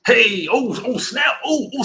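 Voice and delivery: sudden high, loud burst of surprise; startled. Real, not acted. Streamer startled by a big super chat, high excited yelp. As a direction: yelp it out as the donation pops up.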